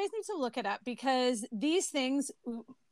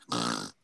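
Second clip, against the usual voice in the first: pig snort laugh. Real, not acted. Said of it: "that was my pig snort".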